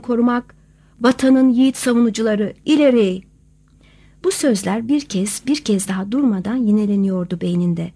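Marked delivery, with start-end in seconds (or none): 0.0-3.2 loud commanding rally cry; rally the troops with force; rousing battle call. Acted.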